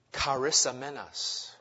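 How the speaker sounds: "charisamenos" said slowly, stress on "ris"; произнести "charisamenos" медленно, по-гречески; Greek word. Shown as a demonstration. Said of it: "Here's another Greek word for you".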